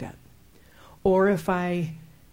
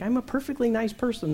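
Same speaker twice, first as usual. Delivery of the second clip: higher, self-satisfied nice-person voice; mock innocence; 5 semitones higher than usual. Preacher acts out herself before a sudden outburst, mock innocent. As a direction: play the perfectly nice person.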